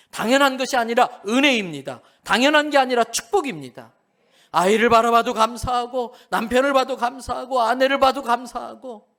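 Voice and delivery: loud, rising preacher's litany; fervent preaching. Acted. Preacher urging the congregation, loud fervent litany.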